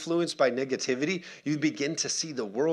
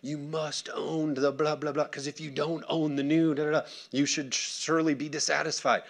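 pushy marketing voice; 3 semitones higher than usual. Acted. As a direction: stretch it out like an insistent advert. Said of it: "Marketing's like".

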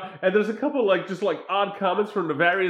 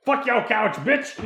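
a singer; 4 semitones higher than usual. Retold or imitated. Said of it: "the singer in the Chappelle Show".

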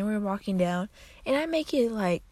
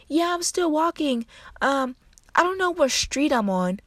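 a hint of a lost grandma; 8 semitones higher, 3 dB louder than usual. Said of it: "She's like".

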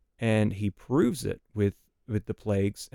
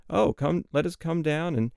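mildly mocking, higher-pitched quote; sarcastic; 5 semitones higher than usual. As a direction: lightly voice God's sarcasm in a raised pitch. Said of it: "God very sarcastically says".

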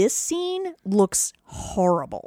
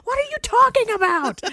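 mock confused; 3 dB louder than usual. Mock confused villain reply.

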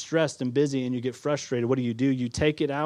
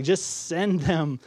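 dismissive innkeeper. Acted. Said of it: "in the innkeeper's voice".

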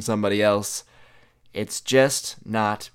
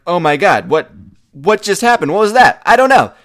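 higher, louder burst of rapid-fire disbelief; stunned freak-out; 6 semitones higher, 8 dB louder than usual. Retold or imitated. Driver at the stoplight reeling after the chase, stunned freak-out. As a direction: blurt it out high and loud, reeling in shock.

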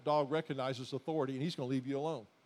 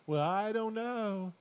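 slow, hesitant mock-timid mumble; imitating a timid doubter, slow and unsure; timid hesitation; slower than usual. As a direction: play the unsure believer, halting. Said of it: "if you're timid and going".

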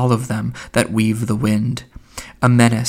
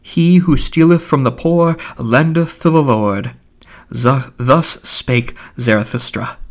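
solemn; 2 semitones higher than usual. A narrator's reading. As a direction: intone it solemnly like holy writ. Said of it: "said solemnly".

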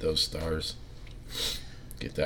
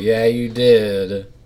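mock sulky reply; 5 semitones higher, 11 dB louder, much slower than usual. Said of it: "And I'd be like".

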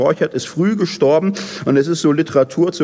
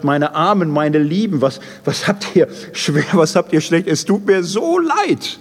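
pitying God; 2 semitones higher than usual. Acted. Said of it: "es tut ihm wahnsinnig leid".

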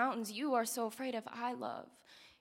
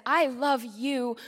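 slow, louder, commanding declaration; with authority; 6 dB louder, much slower than usual. Acted. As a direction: say it like an almighty God claiming it. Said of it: "with the authority of someone so powerful".

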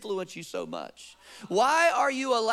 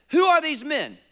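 voicing God; 6 semitones higher, 7 dB louder than usual. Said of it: "Okay, God says".

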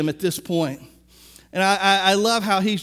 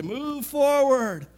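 slow, higher call to the back rows; drawn out and higher, urging; preacher's command; 5 semitones higher, much slower than usual. Retold or imitated. Preacher urging the congregation forward, slow and higher. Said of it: "I wanna say".

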